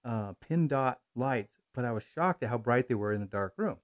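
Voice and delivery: muffled behind a face mask; through a face mask. Real, not acted. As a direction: talk from inside a mask. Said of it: "He's talking through the mask".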